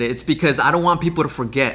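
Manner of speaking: ordinary talk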